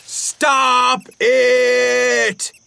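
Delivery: loud, firm stop; bison yells. A narrator's reading. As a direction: bark it to break up the fight. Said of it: "the bison yelled".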